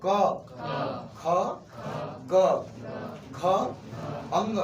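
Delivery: "क, ख, ग, घ, अंग" each said alone, slowly, with a pause after each; slow guttural letters. Shown as a demonstration. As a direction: spell out "क, ख, ग, घ, अंग" one by one from the throat. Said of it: "बोलिए सब".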